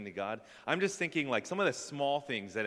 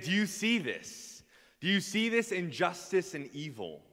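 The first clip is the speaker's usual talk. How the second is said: Habakkuk complaining; 7 semitones higher than usual. Acted. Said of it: "Habakkuk has issues with the way".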